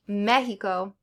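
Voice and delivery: Mexico with the X as a breathy H sound. Shown as a demonstration. Teacher showing learners how X sounds like H in Mexico. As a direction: say Mexico the Spanish way, X like an H. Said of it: "sometimes pronounced like H".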